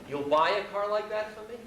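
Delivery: high rising question as the guru; old holy man. Retold or imitated. Holy man pressing the rich American for a car, high imitated questioning. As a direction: lift it into a high, hopeful request. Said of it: "So he said".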